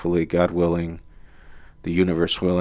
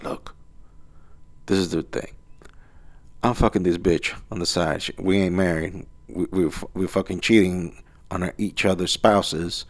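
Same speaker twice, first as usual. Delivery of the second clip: hushed confession; 5 dB quieter than usual. Retold or imitated. Honest guy quietly confessing an affair to the manager. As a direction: lean in and admit it softly.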